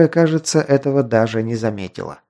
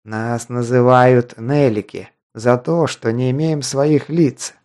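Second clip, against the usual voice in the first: rasping; slower than usual. Acted. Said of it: "хрипел тот".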